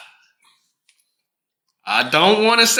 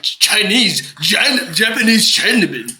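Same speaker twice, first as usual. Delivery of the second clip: put-on rural American accent. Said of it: "you're doing that rural American accent".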